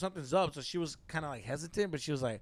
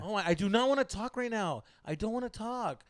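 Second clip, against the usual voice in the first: mock annoyed refusal; 6 semitones higher than usual. Acting out girlfriend refusing to talk.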